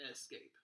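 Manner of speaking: escape said as ess-CAPE; full first E. Shown as a demonstration. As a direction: keep the E of escape clear, ess. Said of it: "maybe some people do call it".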